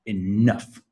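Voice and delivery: enough slowly, with NOUGH stretched and rising; stress on second syllable. Shown as a demonstration. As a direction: model e-NOUGH, weight on the second beat. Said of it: "It's the second".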